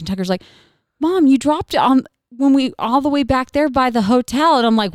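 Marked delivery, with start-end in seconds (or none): 1.0-4.6 lightly voiced kid, higher pitch; a hint of an upset child telling Mom; son calling mom. Son's line in retold story.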